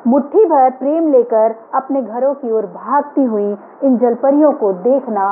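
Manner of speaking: measured poetry reading, phrase by phrase; poem recitation. Acted. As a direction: recite your poem with deliberate pauses between images. Recites her own poem to audience. (कविता पाठ, ठहर-ठहर कर)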